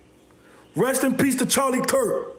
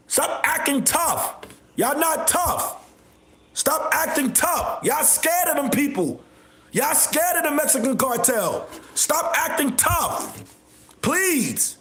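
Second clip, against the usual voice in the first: taunting; 3 semitones higher than usual. Real, not acted. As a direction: drag each word out to mock them. Taunting people he calls scared.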